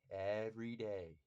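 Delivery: "every day" slow and drawn out; emphatic repetition. Real, not acted. Insisting on his consistent hard work, "every day" stretched emphatically.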